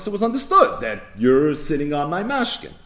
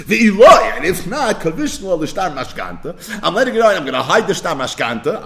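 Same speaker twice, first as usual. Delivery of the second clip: retold menace; 2 semitones higher, 5 dB louder than usual. Lender turning on the borrower, mock threatening. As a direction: flip from nice to menacing. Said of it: "his facial expressions change".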